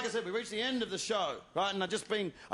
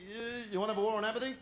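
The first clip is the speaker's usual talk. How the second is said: bored sarcasm; much faster than usual. Retold or imitated. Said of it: "our response would be".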